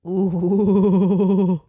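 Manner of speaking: drawn-out, wobbling mock "ooh"; wavering ooh. Host mocks the horse rumor with a wobbly ooh. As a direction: let a long ooh waver.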